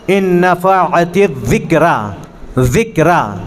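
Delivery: "الذکریٰ" recited slowly with a th as in "this"; tongue tip out on "ذکرہ"; dhāl demonstration. Shown as a demonstration. Teacher recites the verse for students, careful dhāl in "الذکریٰ". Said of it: "اتنی نوک کو باہر نکالنا ہے".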